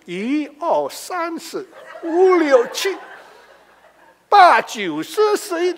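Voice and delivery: mock Chinese prayer. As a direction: count one to ten in Mandarin like a fervent prayer. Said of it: "Ngomongnya satu sampai seratus".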